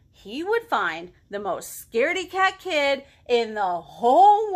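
animated picture-book narration; lively storytime delivery; reading to children. A narrator's reading. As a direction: read it aloud with big swings on key words.

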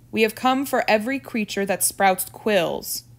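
firm, emphatic monster proclamation; lightly thundered announcement of doom; thundering monsters. Acted. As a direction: declare it forcefully as the menacing creatures. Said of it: "the terrible things thundered".

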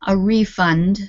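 "refund" as a noun, stressed RE-fund; stress on first syllable. Shown as a demonstration. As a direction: put the weight on RE in "refund". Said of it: "If it's on the beginning syllable".

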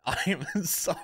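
high laughing apology. Real, not acted.

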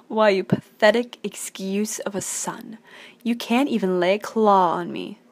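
villain's taunt. Acted. Villain mocking a son, acted.

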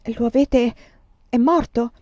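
breathless with dread; shocked. A narrator's reading. Scarlett asks Tony if the man is dead, shocked.

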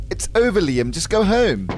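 lightly acted posh English brush-off; posh English woman ending it; posh English accent. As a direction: dismiss him in posh English. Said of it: "very posh English accent".

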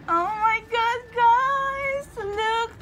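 very high, loud cry of amazement; overwhelmed squeal. Real, not acted. Reader showing viewers the marriage card, squealing in disbelief. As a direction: squeal it out at the top of the voice.

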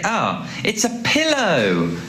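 slow delighted reveal of pillow; drawn-out discovery. Shown as a demonstration. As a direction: stretch out pillow with delight, slowly. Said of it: "Pillow has the O W spelling".

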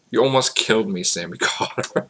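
loud joking accusation breaking into a laugh. Real, not acted. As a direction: accuse playfully, then crack up. Joking about nearly choking.

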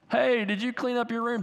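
a hint of a mom calling from another room. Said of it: "your mom calls from the other part of the house".

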